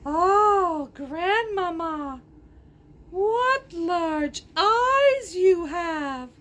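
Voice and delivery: put-on slow child voice.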